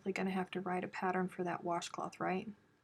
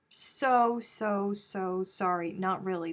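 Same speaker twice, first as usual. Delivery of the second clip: a mock "so sorry" that she takes back; sarcastic; slower than usual. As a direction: fake apology, then deadpan not really. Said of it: "Did you hear all that sarcasm?".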